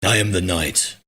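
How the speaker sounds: a hint of a Batman voice; lightly voiced caped crusader line. Streamer reading out a viewer's Batman request, lightly voiced Batman.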